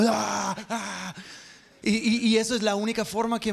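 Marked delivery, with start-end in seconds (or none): 0.0-1.1 mock crying. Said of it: "y uno ya llorando".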